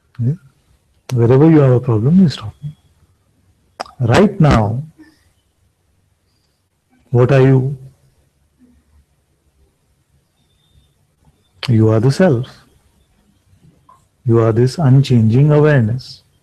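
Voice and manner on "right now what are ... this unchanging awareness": very slow, deliberate pace. Repeating a teaching so the listeners truly hear it: speaking very slowly. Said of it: "let me repeat what I'm saying very slowly".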